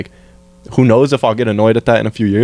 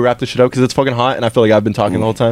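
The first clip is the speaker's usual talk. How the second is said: fast talking; faster than usual. Real, not acted. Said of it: "Sorry I'm talking so fast".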